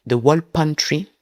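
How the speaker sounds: "The Wall Pantry" slowly, word by word, in a French accent; slow, careful French-accented "The Wall Pantry"; French-accented English. Real, not acted. YouTuber repeating an English book title, slow French-accented "The Wall Pantry". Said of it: "cet accent malmené".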